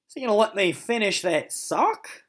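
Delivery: sneaky pup wondering aloud; dog's thoughts. Acted. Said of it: "Milo wondered".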